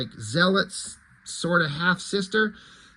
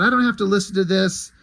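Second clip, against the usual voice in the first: freaking out; 4 semitones higher, 6 dB louder, faster than usual. Retold or imitated. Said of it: "She's freaking out".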